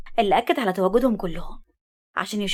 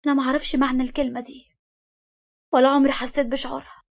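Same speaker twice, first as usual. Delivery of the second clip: mildly sorrowful, slightly raised female voice; sad; 3 semitones higher than usual. A narrator's reading. Woman telling him safety is unknown to her, sadly. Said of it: "قالت له بحزن".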